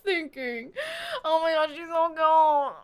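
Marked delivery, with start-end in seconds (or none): 1.2-2.8 cute overload. Real, not acted. Gushing, near crying.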